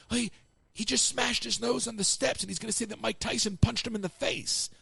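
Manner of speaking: high-pitched, flustered retelling; astonished mock explanation; incredulous report. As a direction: imitate someone relaying absurd news. Retold radio answer to stunned crew.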